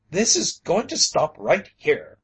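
furious cry. A narrator's reading. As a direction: bellow it out in outrage. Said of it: "he cried furiously".

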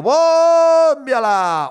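stretched stadium cry; crowd yell. Retold or imitated. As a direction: bellow it like a stand full of fans. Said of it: "la grada gritando".

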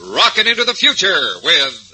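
high, slow, booming show intro; radio announcer. Acted.

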